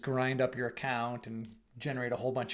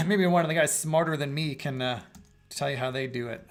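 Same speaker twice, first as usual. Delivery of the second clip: hoarse; 4 dB louder than usual. Real, not acted. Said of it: "losing my voice".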